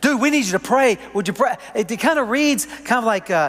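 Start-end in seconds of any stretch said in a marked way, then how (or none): 0.0-1.5 frantic, high, panicked, screaming, pleading cry. Speaker pictures people in the camp running to Moses, imitating panicked screaming. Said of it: "running and screaming at him".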